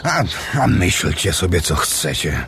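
obrażony, coraz ciszej; naburmuszony. Acted. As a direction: burknij to urażony i odwróć się. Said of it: "Naburmuszył się kasztelan". (obrażony pomruk)

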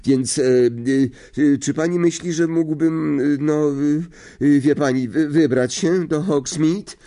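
high, halting request full of fillers; nervous stammer. A narrator's reading. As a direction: fumble your way through asking permission. Nervous pupil asks teacher a favour. (nieśmiało, jąkając się)

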